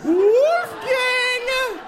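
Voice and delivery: very high, drawn-out call; mother calling. Retold or imitated. Mother calling her son in the building, very high long call. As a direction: call across the building to your child. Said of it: "the mother goes".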